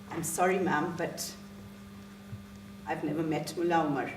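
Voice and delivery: low, restrained polite denial; polite apology. Acted. Teacher correcting insistent stranger, low restrained courtesy. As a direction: keep it even and courteous against the excitement.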